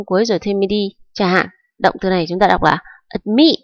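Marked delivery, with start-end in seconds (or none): 3.1-3.6 "admit" with the stress on -mit; stress on second syllable. Shown as a demonstration. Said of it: "trọng âm rơi vào âm tiết thứ hai". (admit, nhấn trọng âm vào âm tiết thứ hai "mit")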